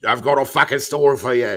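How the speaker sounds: hamming up a bar-room Aussie; mock Aussie storyteller. Friend back from Australia telling stories, mock Aussie. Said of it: "What do you do?".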